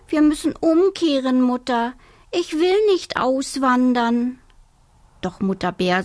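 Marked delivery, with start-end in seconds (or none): 0.1-4.4 high pleading cub voice; whining little bear. Acted. Little bear pleads with his mother, high whining. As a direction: whimper it, begging to turn back. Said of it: "Da jammerte der kleine Bär".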